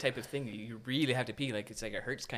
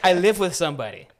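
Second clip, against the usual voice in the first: louder, higher, through real laughter; laughing; 4 semitones higher, 9 dB louder than usual. Real, not acted. Storyteller cracking up at having a housemate, laughing loudly. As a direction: say it while cracking up.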